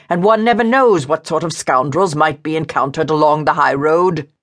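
lightly voiced irate man; scolding, agitated man. Frightened man scolds her for her trick, agitated. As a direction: berate her with a touch of alarm.

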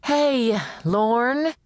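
bright hailing call, rising at the end. Acted. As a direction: shout his name from the doorway. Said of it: "A woman called out".

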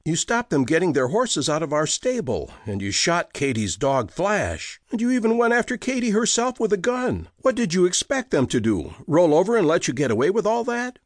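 wife confronting her husband, pitched high and quickening; Josie accusing. Acted. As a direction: list his wrongs at him, rising. Wife confronting husband over neighbors.

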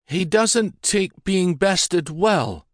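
a touch of bold defiance; defiant young woman. A narrator's reading. Catherine retorts to laird.

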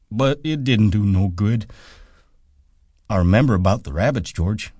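eager, pleading Lenny; childlike Lenny. A narrator's reading.

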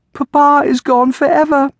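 high, loud acted wail; sobbing girl. A narrator's reading. Girl tells her aunt that Papa has died, sobbing. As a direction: cry it out as a grieving girl. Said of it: "Amelia sobbed".

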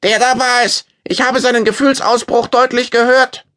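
put-on very high, loud accusing old man; shrill old man. A narrator's reading. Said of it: "Schrill rief der Alte".

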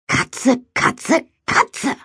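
rising chant ending in a cry; building incantation. A narrator's reading. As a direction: build the spell to a high cry. Spell cast, building to shout.

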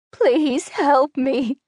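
put-on high, pleading elderly woman's voice; a panicked old lady begging strangers for help; frantic old woman crying for help. A narrator's reading. Old woman clutches Daphne's arm.

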